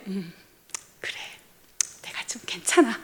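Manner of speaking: whispered self-satisfied murmur; pleased whisper. Pretend. Husband quietly pleased by his wife's praise, whispered. Husband's smug inner reply.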